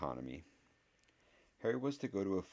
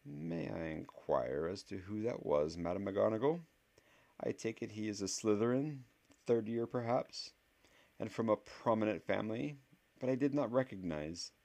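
ooze false politeness, pitched up; oily voice; 6 semitones higher than usual. A narrator's reading. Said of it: "ask in his oily voice".

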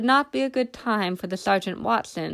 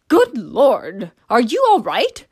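louder, alarmed call from behind; 3 semitones higher, 7 dB louder, slower than usual. A narrator's reading. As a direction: call out in sudden concern. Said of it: "called a voice from behind her".

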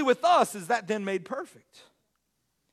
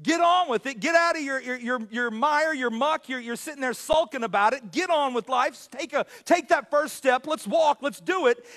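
exhortation. Retold or imitated. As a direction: push them to get moving. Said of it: "Last week we said".

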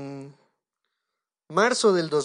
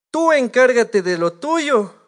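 loud, slow, higher-pitched retold ultimatum; defiant; 5 semitones higher, 9 dB louder, slower than usual. Preacher retells his ultimatum to God, defiant. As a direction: lay it down forcefully, word by word.

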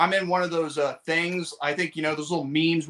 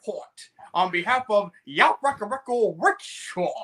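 Asian-accent weatherman impression, raised pitch; hammed-up Asian accent for a forecast; caricatured Asian accent; 4 semitones higher than usual. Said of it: "like a Asian weatherman going".

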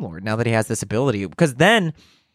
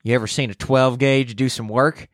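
hammed-up Southern menace; Southern butler; 2 semitones higher than usual. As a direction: play a threatening Southern manservant. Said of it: "Southern hospitality".

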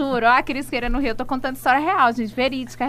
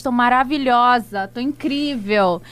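slow, emphatic upbeat affirmation; affirming; 5 dB louder, slower than usual. Shown as a demonstration. Coaching listeners on daily self-talk, slow upbeat affirmation. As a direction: say it like you believe it. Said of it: "aprendi muito a falar assim".

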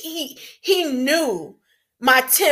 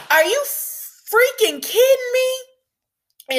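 much higher, slow, drawn-out furious yell; furious outburst; 14 semitones higher, much slower than usual. Retold or imitated. Grieving daughter yells at officer who told her to calm down, high and furious. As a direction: go off on the officer, every word stretched in rage. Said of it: "I started going off".

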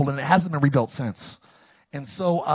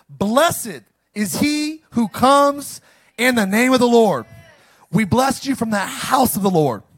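proclaiming; 5 semitones higher, 4 dB louder, slower than usual. Real, not acted. Preacher proclaiming psalm.

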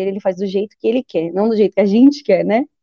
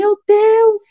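high shocked cry of Meu Deus; shocked exclaim; 10 semitones higher than usual. Retold or imitated. Learning she is five months pregnant, a shocked cry. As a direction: gasp it out in disbelief.

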